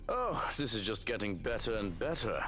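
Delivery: lightly voiced gloating villain; villain's voice. Villain watching things get better, lightly gloating. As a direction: play the villain enjoying this.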